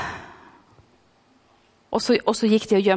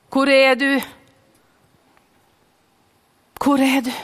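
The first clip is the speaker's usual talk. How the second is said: calling. Acted. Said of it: "han roper på oss".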